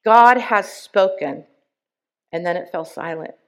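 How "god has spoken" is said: loud, slow, booming pronouncement; thundering voice. Retold or imitated. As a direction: boom it out slowly like a voice from the sky. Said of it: "a thundering voice echo".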